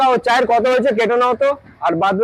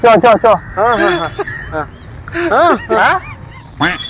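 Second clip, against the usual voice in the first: shouting; 2 semitones higher, faster than usual. Acted. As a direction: shout to hurry. Loud urging.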